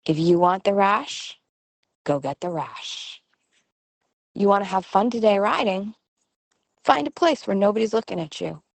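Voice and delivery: short, plain directives with long pauses; matter-of-fact parent offering a simple choice; very simply. Shown as a demonstration. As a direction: state the choice and let it land. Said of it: "very few words, very simply".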